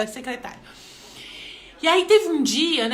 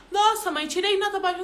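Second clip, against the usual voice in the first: son reporting; 6 semitones higher than usual. Retold or imitated. Son reporting bad grade.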